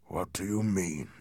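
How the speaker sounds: tense, very soft whisper. A narrator's reading. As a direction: whisper the question, with no voice. Shaken Heathcliff questions the intruder.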